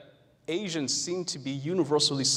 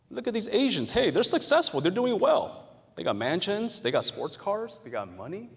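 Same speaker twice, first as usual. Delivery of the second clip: mocking onlooker; 5 semitones higher than usual. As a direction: parody someone impressed by rich Asians. Voicing the stereotype's view.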